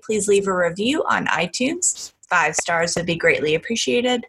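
light news anchor read; polished podcast-outro announcer delivery; newscaster voice. Shown as a demonstration. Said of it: "I'm bringing out my newscaster voice".

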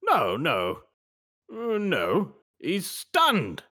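evasive British shopkeeper, pitch swooping; wheedling British shop owner; British accent. Acted. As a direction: deny it in a put-on British accent. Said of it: "We're gonna try our British accents".

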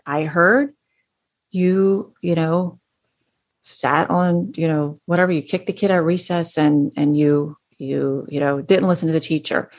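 calm, level delivery without blame; matter-of-fact, measured opener; even-keeled tone. Shown as a demonstration. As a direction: say it evenly, keeping judgment out. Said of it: "very even keel tone voice".

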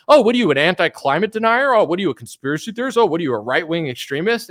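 rapid-fire mocking imitation of accusers; mock accusing. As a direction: mimic people pouncing with loaded questions. Mimics accusers' hostile questions.

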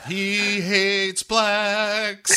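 a very slow, dramatic movie-trailer announcer; mock trailer voice. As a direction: stretch the title out like a trailer.

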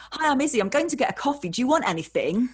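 nervous fake casual. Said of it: "And I was like".

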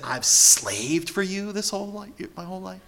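put-on whining accusation from a spoiled child; aggrieved son complaining to his father; resentful child. Ungrateful child quoted.

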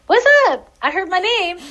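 a little rat popping in to say hi; cheeky rat voice. Pretend. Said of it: "the rat came in and was just like".

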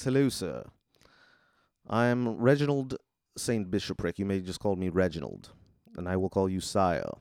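put-on polite English robot butler accent; British butler. Butler greeting his new master at the door, British and formal. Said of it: "And he's British".

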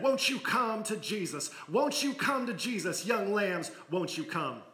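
lightly voiced preacher pleading; preacher's call. Preacher calling the children to come forward, lightly pleading. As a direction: plead with the young lambs like a preacher.

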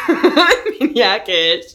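put-on "I'm maniac-ish." drawled slowly in a loud American accent. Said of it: "Why am I American?".

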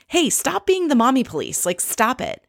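mild, insistent reprimand; retold telling-off. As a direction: imitate a fed-up friend stepping in. Luann telling Kelly off, retold.

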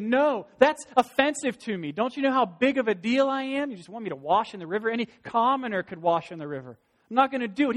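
loud, high indignant commander; proud angry refusal. Acted. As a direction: bark it out, wounded pride.

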